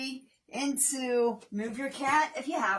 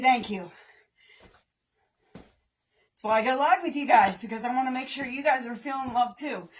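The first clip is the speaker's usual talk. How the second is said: ordinary talk, nothing marked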